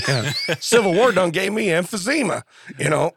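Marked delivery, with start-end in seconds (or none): 0.6-2.4 put-on rough, raspy old smoker. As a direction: rasp like a chain smoker. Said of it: "method acted that".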